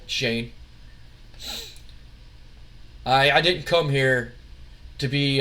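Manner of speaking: lightly voiced low, subdued wrestler; weary, fed-up wrestler. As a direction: grumble it low, as a hint of a tired enforcer. Voices Paul in wrestling story.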